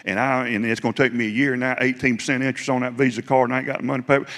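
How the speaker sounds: retold rant at God. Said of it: "I was just letting it roll".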